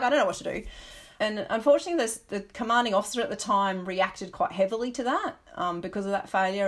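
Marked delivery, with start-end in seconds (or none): 0.0-0.6 laughing mock helplessness. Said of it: "and they're like".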